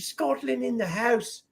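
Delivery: high, bright announcement of a viewer; excited shout-out. Real, not acted. Host hyping a Scottish viewer in chat. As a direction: hype up the viewer's country.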